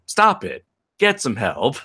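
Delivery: a hint of Michael Jordan, short and dismissive; lightly voiced deadpan meme quote. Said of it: "to quote a line from, from, uh, Michael Jordan".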